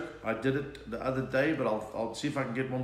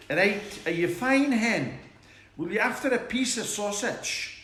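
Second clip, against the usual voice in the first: Scots accent; 7 semitones higher than usual. Shown as a demonstration. Comedian doing a requested Scots accent, high Scottish voice. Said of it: "A Scot-, Scots accent".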